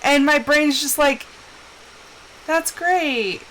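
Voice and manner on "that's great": mild, underwhelmed thanks; a half-hearted little yay; unexcited. Retold or imitated. Brain failing to summon excitement for presents, underwhelmed. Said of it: "my brain cannot summon excitement".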